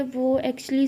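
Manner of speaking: tentative, in an everyday-level voice; mildly reluctant, left hanging; hesitant start. Acted. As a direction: begin a confession and falter. Tara hesitates, starts to confess.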